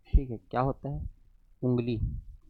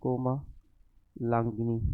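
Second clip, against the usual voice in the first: slow dictation; 2 semitones lower, 4 dB quieter, much slower than usual. Shown as a demonstration. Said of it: "ये अशुद्ध है".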